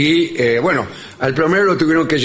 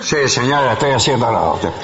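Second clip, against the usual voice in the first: cavernous voice; 5 semitones lower than usual. Retold or imitated. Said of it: "las respuestas del plomero vienen con voz cavernosa".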